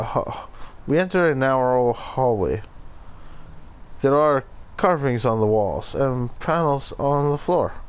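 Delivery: hammy Italian accent drifting toward Russian; attempted Italian accent. Shown as a demonstration. Player reading the memory log aloud, attempted Italian accent. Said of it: "I'm trying to do an Italian accent".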